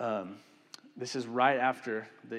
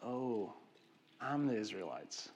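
sobered realization; 5 dB quieter than usual. Retold or imitated. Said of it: "sobering realization of like".

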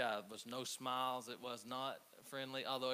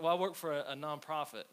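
flustered answer; 4 semitones higher, 8 dB louder than usual. Retold or imitated. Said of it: "I was like".

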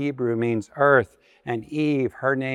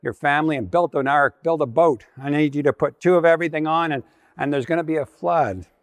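urgent warning; 2 semitones higher, faster than usual. Acted. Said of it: "God warns Noah".

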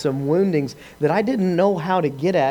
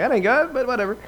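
skeptical scoff; 8 semitones higher than usual. Retold or imitated. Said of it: "I'm like".

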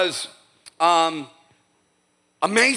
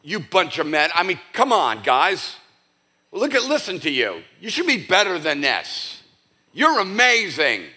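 mock scolding; 3 semitones higher than usual. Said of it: "No, he doesn't say that".

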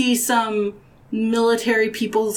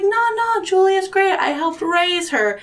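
imitated dad; 9 semitones higher than usual. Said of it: "My dad was like".

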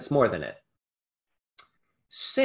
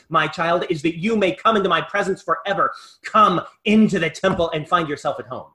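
raised, urgent call, short of a scream; God calling out; 4 dB louder than usual. Acted. God calling a child from the temple door, raised-voice urging. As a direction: call out insistently to a long-awaited child. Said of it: "screaming, yelling out at you".

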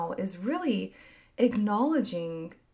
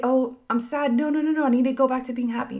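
mock anxious self-talk; 5 semitones higher, 5 dB louder, faster than usual. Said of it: "You don't have to just say".

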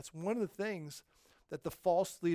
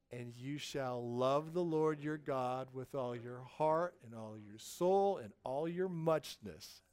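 recited scripture; 3 semitones lower, slower than usual. Real, not acted. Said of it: "Quote it with me".

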